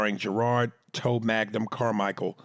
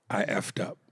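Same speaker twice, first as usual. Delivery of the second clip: sheepish whisper; 2 semitones lower, 3 dB quieter than usual. Real, not acted. Confessing to Brosy.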